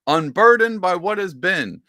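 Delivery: imitating Kamala. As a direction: mimic her rehearsed slogan, drawn out. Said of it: "she said the".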